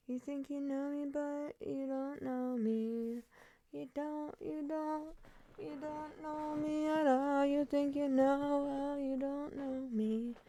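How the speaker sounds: high, soft, sing-song defiance; sassy sing-song. Pretend. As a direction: taunt in a high breathy voice. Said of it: "That's me right now".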